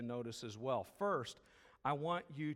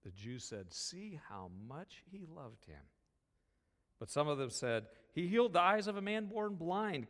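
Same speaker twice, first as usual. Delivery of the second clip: scripture reading; 3 semitones lower than usual. Acted. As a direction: read the passage gently to the congregation. Reading scripture aloud in service.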